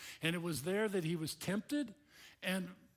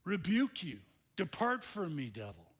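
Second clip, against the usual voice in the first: stern rebuke; 3 semitones higher, 4 dB louder than usual. Acted. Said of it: "Jesus said to the devil himself".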